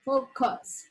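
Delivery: focus repeated with a clear long O; careful pronunciation. Shown as a demonstration. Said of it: "Gotta be careful with this word".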